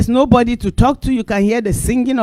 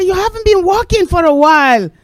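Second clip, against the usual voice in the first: imitating neighbour; 10 semitones higher, 4 dB louder than usual. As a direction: ask like a friendly neighbour. Neighbour remarks.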